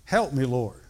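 a touch of Peter's urgent cry. Retold or imitated. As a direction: call out for help, partly acted. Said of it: "Peter cried out".

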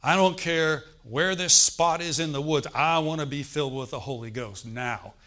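desperate man shouting to the pastor; desperate plea. Retold or imitated. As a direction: demand it now, fed up from walking. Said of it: "the guy said in desperation".

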